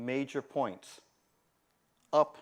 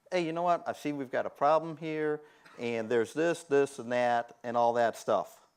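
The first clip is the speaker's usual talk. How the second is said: confident. Shown as a demonstration. Consultant briefing a client, calm and confident. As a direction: say it standing tall, sure of yourself. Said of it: "standing up, shoulders back, head up".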